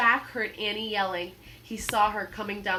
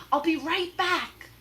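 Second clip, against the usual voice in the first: Jack calling; 7 semitones higher, 6 dB louder than usual. Acted. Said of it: "Jack said".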